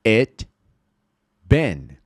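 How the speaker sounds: each word alone with long gaps; slow, separated teaching pronunciation; slow word-by-word model. Shown as a demonstration. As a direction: say it word by word for learners to repeat. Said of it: "Speak aloud with me".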